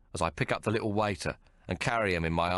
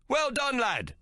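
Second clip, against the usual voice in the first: high bright yell of praise; cheering yell; slower than usual. Acted. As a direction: cheer the lad on. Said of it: "yells another".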